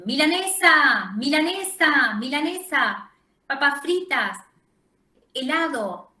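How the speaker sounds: loud, high-pitched food demands; imitated child's shouting. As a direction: call out each word like a child yelling for food. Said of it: "todo esto junto a los gritos". (imitando los gritos de un niño que exige comida)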